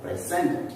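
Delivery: "presented" slow, with weight on SENT; stress on second syllable. Shown as a demonstration. Teacher explaining the verb, second-syllable stress on "presented". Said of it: "I stressed on the second syllable".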